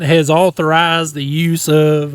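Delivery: mock Texan official's announcement; Texas accent. American diplomat speaking for the president, mock Texas accent. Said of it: "like, a Texas accent".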